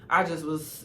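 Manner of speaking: usual speaking voice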